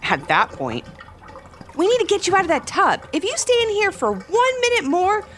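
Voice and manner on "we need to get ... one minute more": high, teasing mom ending in a little giggle; playful higher voice, light laugh after. A narrator's reading. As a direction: tease a child, then giggle. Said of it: "her mom said with a giggle".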